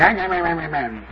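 retold childish taunt; mock the pastor with nasty nonsense syllables. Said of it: "he went to me".

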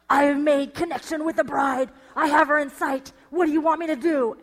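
a hint of an undercover agent reporting in; mock spy. Husband pretending to spy at a wedding, mock secret agent. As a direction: play a lightly hammed-up spy on a mission. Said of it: "he pretends like he is a spy".

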